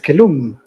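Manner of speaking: kelum with the accent on the final syllable; French-style stress. Shown as a demonstration. Lecturer imitating a Frenchman's pronunciation, final-syllable stress on kelum. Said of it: "he would, of course, pronounce it".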